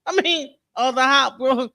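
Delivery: excited. Real, not acted. Streamer demanding the alien shown.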